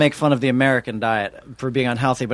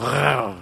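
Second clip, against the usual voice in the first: gargled French R. Shown as a demonstration. Mimics French R after juice tip.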